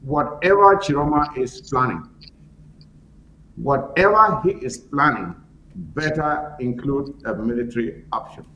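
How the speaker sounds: spaced-out insistent delivery; emphatic. Real, not acted. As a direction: hammer the warning home. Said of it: "let me be very emphatic".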